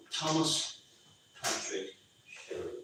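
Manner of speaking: name read out slowly, word by word. Retold or imitated. Boss reading the new hire's name sign, reading out slowly. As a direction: pause after each name, as if reading a sign. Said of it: "looks at the thing, he goes".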